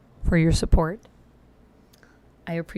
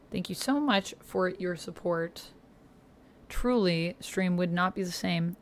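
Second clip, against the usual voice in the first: talking around fake fangs; words slurred by fangs in mouth; vampire fangs. Real, not acted. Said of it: "Why did I make a sound like that?".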